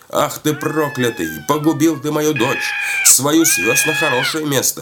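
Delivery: high-pitched berating wail; angry scolding. A narrator's reading. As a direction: rail at the old man for a lost daughter. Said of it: "Стала ругать старика". (старуха ругает старика высоким голосом)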